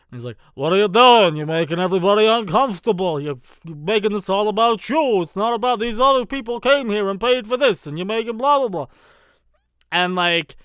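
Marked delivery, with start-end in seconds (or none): 0.5-8.9 loud, put-on cartoon character telling someone off; Zoidberg. Actor rebukes a fan at a panel, in Zoidberg's voice. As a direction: call out a heckler in a loud cartoon voice. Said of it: "talking to him in Zoidberg's voice".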